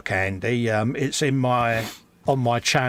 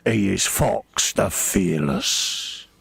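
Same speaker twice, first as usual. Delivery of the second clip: mock proclamation; 5 semitones lower, much slower than usual. Mock orc title proclamation.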